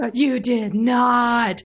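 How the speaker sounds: gasp, then a slow, stunned "you did not"; drawn-out delighted disbelief; surprised gasp. Real, not acted. Guest reacting to the host's secret reveal, gasping in surprise. Guest hears of a hidden reuse.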